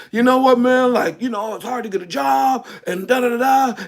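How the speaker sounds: animated mock griping; loud talk. Acting out brothers talking in an open field, loud and lively. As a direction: imitate brothers chatting freely and openly. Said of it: "they get loud again".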